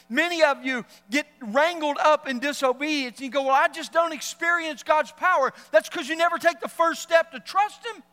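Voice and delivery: loud, pointed rebuke; loud sharp voice. Real, not acted. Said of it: "Why are you yelling at me".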